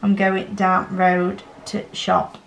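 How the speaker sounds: "down road to shop", THE reduced to a brief t; slow Yorkshire "down road to shop" without "the"; Yorkshire dropped article. Shown as a demonstration. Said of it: "You'd say".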